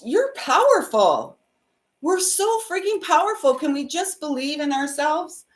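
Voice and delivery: rally them to believe in themselves; passionate plea. Real, not acted. Urging her viewers to be brave, passionately.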